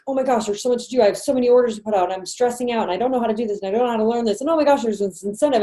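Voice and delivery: hammed-up overwhelmed seller unloading on friends; stressed-out rant. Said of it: "if you're freaking out, stressed out".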